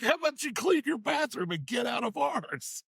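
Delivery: very high-pitched, incredulous retort; exasperated comeback. Retold or imitated. Telling Billy to get out of our bathroom, exasperated.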